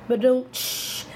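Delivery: "Ba-dum, tsh" as a casual spoken drum hit; vocal rimshot. Shown as a demonstration. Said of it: "heard the drums playing".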